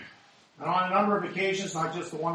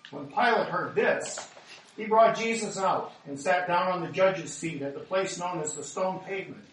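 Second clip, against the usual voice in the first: ordinary talk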